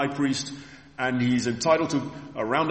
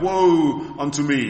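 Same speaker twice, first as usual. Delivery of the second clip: drawn-out, raised cry of woe; prophet's lament; 3 semitones higher, 6 dB louder, slower than usual. Acted. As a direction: stretch it out slowly, louder, as a lament. Prophet's cry of doom, acted.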